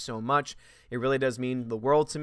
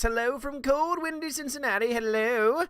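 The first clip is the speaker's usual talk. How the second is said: much higher, put-on voice; high mock voice; 10 semitones higher than usual. Streamer reads a viewer's greeting in a high silly voice.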